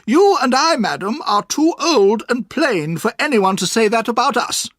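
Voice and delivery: put-on high, firm old-lady voice; high, earnest old aunt. A narrator's reading. Aunt tells the boy about Mister Dick, earnest and firm. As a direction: stand up for her friend. Aunt retorts to Miss Murdstone.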